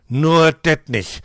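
slow, loud Berlin groan. Acted. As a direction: moan it in dismay. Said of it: "stöhnt Otto". (stöhnend)

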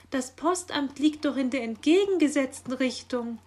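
high, loud protest; calling after. A narrator's reading. Magpie pointing out the wrong direction, calling after him. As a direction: call out a puzzled objection. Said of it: "rief sie ihm nach".

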